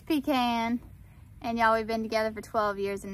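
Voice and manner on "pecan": pecan as "pee-KAN", flat A like "can"; husband's pecan. Retold or imitated. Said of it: "He says".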